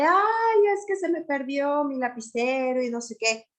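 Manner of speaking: put-on a kid panicking over a lost pen; startled child. Shown as a demonstration. Startled child who lost a pen, upset whine. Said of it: "el niño está sobresaltado".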